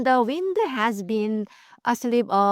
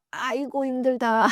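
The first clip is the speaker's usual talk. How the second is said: groaning sigh; 4 semitones higher than usual. Shown as a demonstration. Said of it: "저도 groan 할 때가 많아요".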